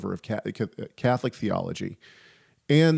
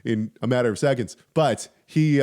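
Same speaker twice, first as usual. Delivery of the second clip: ordinary talk, nothing marked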